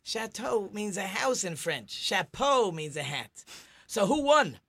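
a lightly voiced wife scolding her husband. Joke teller plays the wife chiding her husband over the bet. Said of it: "So the wife said".

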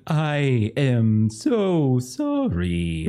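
slow, drawn-out flustered receptionist; flustered apology. Acted. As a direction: apologise while falling apart.

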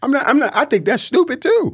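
high, loud laughing protest. Real, not acted. Laughing off happy wife happy life, high and loud. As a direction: laugh it off while disagreeing. Laughing rejecting a popular saying.

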